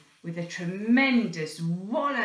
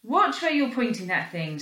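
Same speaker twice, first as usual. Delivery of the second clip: mock scream; 2 semitones higher, 4 dB louder than usual. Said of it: "screamed Amber".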